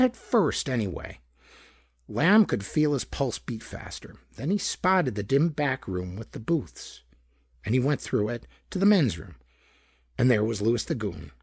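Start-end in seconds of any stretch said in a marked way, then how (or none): none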